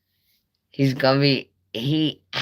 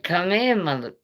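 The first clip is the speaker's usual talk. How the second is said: high taunting dog voice; dog daring the neighbor to come in, taunting; voicing the dog; 5 semitones higher than usual. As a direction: goad the intruder like a cocky dog, pitched up. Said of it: "Junior was like".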